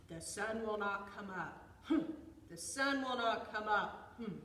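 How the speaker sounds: loud bear chant with punched huffs; stubborn bear. A narrator's reading. Bear waits facing the east, loud and stubborn. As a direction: chant it firmly, huffing after each line.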